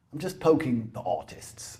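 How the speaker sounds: hushed confiding aside; whispering. Real, not acted. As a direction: drop to a whisper.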